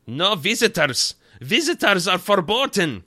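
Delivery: loud, high-pitched mock German outburst; German accent. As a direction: shout it as an indignant cartoon German doctor. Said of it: "he does have a German accent".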